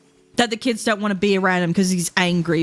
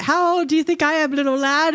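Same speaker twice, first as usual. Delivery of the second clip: mock old man voice; 8 semitones higher than usual. Imitating old self talking to child.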